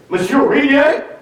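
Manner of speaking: put-on high, inquiring French-accented question; Clouseau-style inspector calling his name. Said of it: "And he says".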